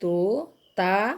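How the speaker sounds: very slow, syllables stretched apart; तोता drawn out slowly; slow spelled-out word. Shown as a demonstration. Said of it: "sounded out slowly".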